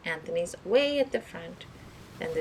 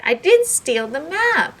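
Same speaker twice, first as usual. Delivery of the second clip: slow, high, loud outcry; cried out; 11 semitones higher, 12 dB louder, slower than usual. Acted. Doctor Peck crying out to the accusers, slow and loud. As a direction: make them all stop and listen. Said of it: "cried Doctor Peck".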